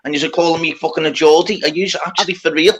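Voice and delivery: play-acted exasperation at being misidentified; imagined disbelief. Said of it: "he must, he must have been thinking".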